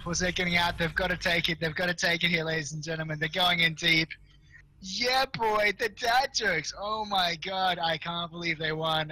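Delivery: excited caster. Real, not acted. Caster calling the dad jokes' comeback, excited. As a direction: hype the comeback as it happens.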